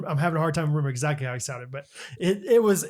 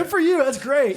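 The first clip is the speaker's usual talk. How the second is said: mock enthusiasm; 8 semitones higher, 5 dB louder than usual. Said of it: "I was like".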